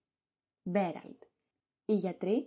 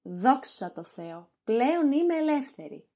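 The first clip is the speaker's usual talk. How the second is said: gleeful relief. Acted. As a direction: savour the freedom. Wife gloats over husband's death.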